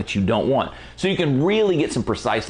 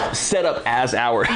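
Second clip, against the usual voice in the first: laughing; slower than usual. Real, not acted. Bursts out laughing mid-sentence.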